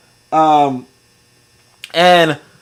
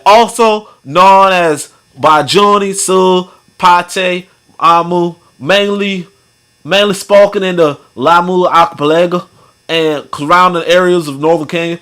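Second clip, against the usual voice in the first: imitated Southern accent, drawn-out reading. Shown as a demonstration. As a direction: read the list in a put-on Louisiana accent. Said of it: "that accent that I was just doing".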